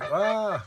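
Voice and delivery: loud, high "ah" of frustration; frustrated groan. Real, not acted. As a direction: break off with an exasperated cry. Flubbed take, interrupted, restarting.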